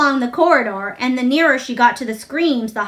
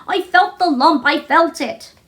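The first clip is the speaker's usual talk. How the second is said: higher, choked tearful protest; 5 semitones higher than usual. A narrator's reading. Colin choking out his fear to Mary. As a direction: force the words through tears. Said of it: "choked out Colin".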